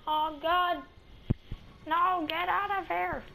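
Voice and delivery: scared yelp at a pursuer; being chased. Real, not acted. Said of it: "Somebody's chasing me".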